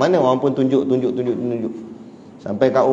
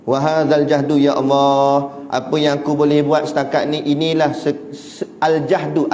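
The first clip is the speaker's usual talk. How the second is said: earnest pleading prayer; prayer demo. Shown as a demonstration. Preacher modelling an earnest prayer to the congregation. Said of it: "cara Nabi berdoa".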